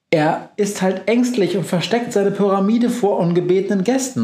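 a hint of a brisk witch, quick; lightly voiced witch. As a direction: rattle it off as the cheerful witch. Befana voiced in story.

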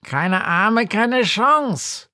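high sing-song call, pitch climbing on Chance; Lilith calling. Acted. Lilith ruft Günther aus dem Wohnzimmer, hoch und neckend. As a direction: call back teasingly, rising high. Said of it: "ruft Lilith".

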